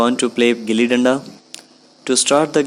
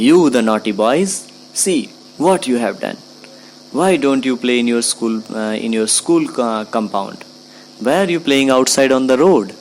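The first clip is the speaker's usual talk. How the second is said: put-on shouting at boys; faster than usual. Angry man with a hit cap shouting at the boys. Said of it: "He shouted".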